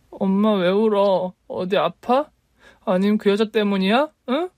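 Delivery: put-on a young girl gently pressing her crying mother; worried little girl. A narrator's reading. Little daughter asking her crying mother why, in a high worried child voice.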